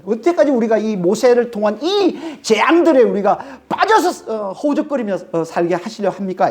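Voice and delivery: rebuking the king. Acted. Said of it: "꾸짖는 것처럼 보여요".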